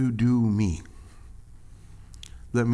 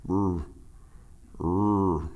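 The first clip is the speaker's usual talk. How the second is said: Fonzie growl; 4 semitones lower, 3 dB quieter than usual. Retold or imitated. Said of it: "Fonzie couldn't say it".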